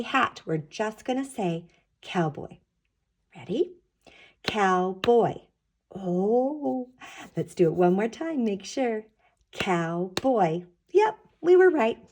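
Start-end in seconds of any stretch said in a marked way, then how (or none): 4.4-5.3 clapped syllables. Shown as a demonstration. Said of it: "There are two claps". 9.5-10.6 clapped syllables. Shown as a demonstration. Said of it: "There are two claps".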